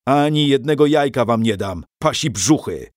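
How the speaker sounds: a hot-tempered knight's loud retort; booming refusal. Acted. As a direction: thunder it at the monks. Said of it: "huknął rycerz".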